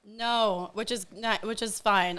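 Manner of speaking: whiny. Real, not acted. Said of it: "I said that in a whiny voice".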